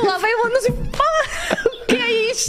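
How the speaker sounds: high, laughing indignant outburst; annoyed surprise. Retold or imitated. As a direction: groan at a sudden ad. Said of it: "estou a ouvir S M R e vou".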